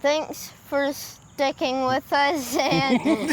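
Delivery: slow, hissing snake-like s; drawn-out s like a snake. Real, not acted. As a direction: slowly hiss out each s. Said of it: "You're doing the snake thing again".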